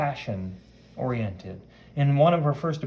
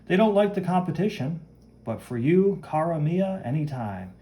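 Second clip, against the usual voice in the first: theatrical, swooping higher pitch; grand fashion friend; 3 semitones higher than usual. Acted. Fashion friend answers Sue's call, theatrical and grand. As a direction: play the grand fashion friend making her entrance.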